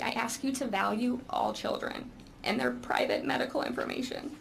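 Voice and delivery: holding back tears, voice thinning and fading to breath; a mother near tears, pushing the last words out; voice breaking with emotion. Real, not acted. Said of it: "Sorry, I get emotional with my son".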